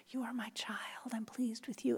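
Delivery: soft unvoiced whisper of "You are my child"; a gentle hushed blessing. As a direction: breathe it like God whispering close. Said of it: "God is whispering".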